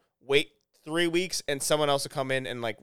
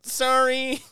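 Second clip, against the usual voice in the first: robot voice; 11 semitones higher, 4 dB louder than usual. Retold or imitated. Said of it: "a robot's voice the entire time".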